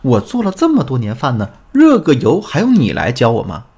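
mildly indignant acted comeback; retorting. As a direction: hit back as the offended husband, retold. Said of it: "他马上就回怼了我一句". (模仿丈夫不服气地回怼)

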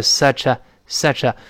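"such a" run together as one word; teacher's demo of linked "such a". Shown as a demonstration. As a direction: slide the ch of "such" straight into "a". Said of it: "连在一块儿".

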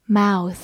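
"mouth" ending in voiceless th; final th sound. Shown as a demonstration. Teacher contrasting near-homophones for learners, "mouth" with a final th. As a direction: finish "mouth" with tongue between the teeth. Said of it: "后面是一个咬舌音".

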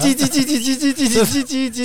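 high-pitched angry mouse chatter; high mouse squeaks. Pretend. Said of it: "这怎么是脏话了".

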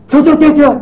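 sharp loud shoo at a dog; shooing shout. Retold or imitated. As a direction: chase the dog off, loud and quick. Barber shoos the dog. (大声轰狗)

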